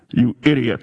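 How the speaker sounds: mock divine rebuke, dropped low; voice of God. The Lord rebuking the preacher at the Alamo, low and stern. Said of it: "the Lord spoke to me in an audible voice".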